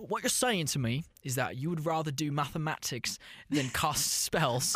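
put-on British-accented dad questioning his child. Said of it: "not speaking in our native accent".

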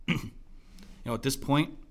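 losing his voice, a bit hoarse; hoarse, voice giving out. Real, not acted. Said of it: "I'm losing my voice here".

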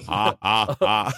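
mock laugh. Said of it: "I wanna try out the laugh".

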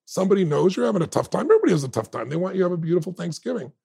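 lightly voiced delivery guy begging, rising high; pleading delivery man. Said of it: "the man said".

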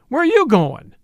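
sharp high shout across the room. A narrator's reading. Judge shouting after the woman leaving, loud. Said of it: "Shunk Wilson shouted".

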